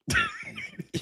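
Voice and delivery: sudden high laugh bursting out; burst of laughter. Real, not acted. Streamer laughing at his own chat callout.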